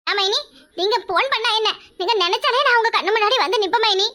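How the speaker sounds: butter her up with a laugh; fawning sister-in-law. Acted. Sister-in-law flattering her mainy, giggly and eager.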